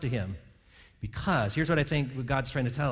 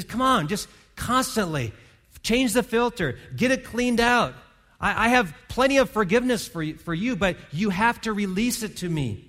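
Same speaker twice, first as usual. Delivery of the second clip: urging; 5 semitones higher than usual. Acted. Voicing God urging confession.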